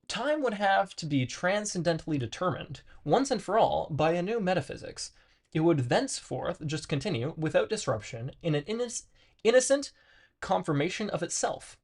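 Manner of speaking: measured read-aloud of dense philosophy, stumbling on hard words. Acted. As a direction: read it out with lively, swinging emphasis. Reads philosophy text aloud.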